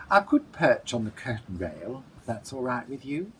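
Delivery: sleepy, yawning voice. Acted. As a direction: speak through a yawn, drowsy. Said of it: "yawning and blinking with evident tiredness".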